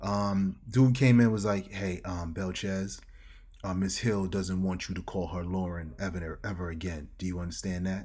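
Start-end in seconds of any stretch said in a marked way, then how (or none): 1.7-8.1 put-on whisper, lower pitch. Retelling how a security guard delivered a warning: imitating a whisper. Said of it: "whispers in my ear".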